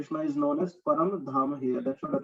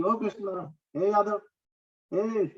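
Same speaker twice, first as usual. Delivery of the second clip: lightly imitating a careless call to a friend; offhand friendly address, lightly acted; mock casual calling; 4 semitones higher than usual. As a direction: toss the names off casually, like to a buddy. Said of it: "I just called you casually".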